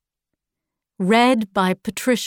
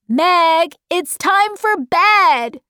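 raised, higher calling voice; shouted; 6 semitones higher, 3 dB louder, slower than usual. A narrator's reading. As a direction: call it across the garden. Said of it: "shouted Dennis".

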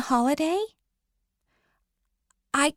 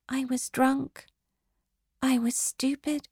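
whisper; 4 dB quieter than usual. Acted. Ashamed confession to boyfriend.

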